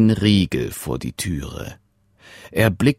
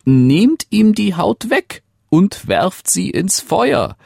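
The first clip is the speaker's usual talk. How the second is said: much higher, quick and excited; eager servant; 7 semitones higher than usual. Acted. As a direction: urge the king on, breathless. Servant eagerly advises the king.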